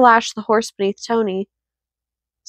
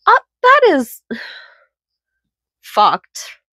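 whispered; 4 semitones higher, slower than usual. Real, not acted. Reacting to grim story.

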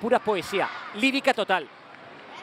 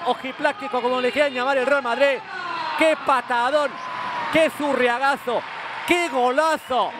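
raised, excited play-by-play; breakneck goal commentary. Real, not acted. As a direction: keep the goal euphoria going.

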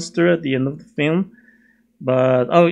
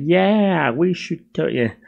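lightly put-on Valley Boy accent; 3 semitones higher than usual. Friend going along with Godzilla, Valley Boy accent. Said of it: "Valley Boy accent".

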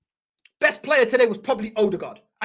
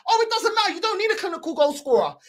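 mocking fans' dismissal; 5 semitones higher than usual. Parrots fans dismissing his worry.

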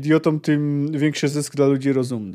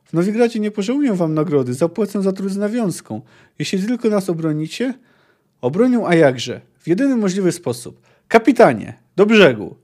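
lively read-aloud of a fantasy novel; story narration. Acted. Reading the chapter to viewers, as a story narrator. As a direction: tell the tale with character in the quotes.

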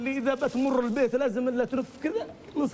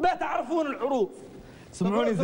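shouting salesman. Pretend. Salesman starting pitch.

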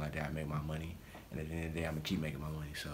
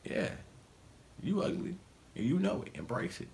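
high, blunt girly mimicry; girls' voice; 13 semitones higher than usual. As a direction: play a girl telling him off, pitched up. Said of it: "some girls would be like".

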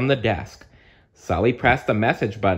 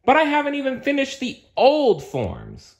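much higher, panicked protest; flustered; 4 dB louder than usual. Acted. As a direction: squeak out a flustered objection. Sully flustered.

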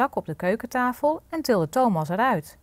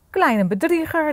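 raised, high-pitched ogre's accusation; angry cry; 9 semitones higher, 4 dB louder than usual. A narrator's reading. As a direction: call out crossly at the little cheat. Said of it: "riep de menseneter boos". (boos uitroepend)

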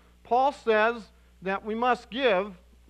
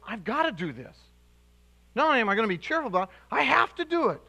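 eager Macedonians; 2 semitones higher, faster than usual. Retold or imitated.

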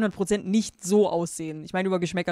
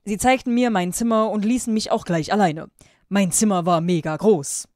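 louder, emphatic read-aloud delivery; story narration; 2 semitones higher, 6 dB louder than usual. A narrator's reading. Reading fan fiction aloud to viewers, emphatic narration. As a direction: read it out with loud, deliberate emphasis.

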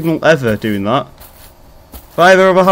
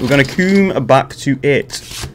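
measured, drawn-out delivery; slow, deliberate repeat; 3 semitones lower, 4 dB quieter than usual. Pretend. Gamer putting off the puzzle, slow deliberate repeat. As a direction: spell it out slowly. Repeats his own line slowly.

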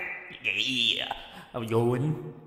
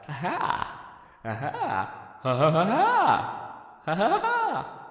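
evil laugh attempt; 8 semitones higher than usual. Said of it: "find out an evil laugh".

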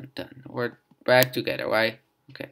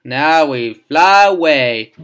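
excited; 2 semitones higher, 12 dB louder, slower than usual. Real, not acted. Cheering the panda on.

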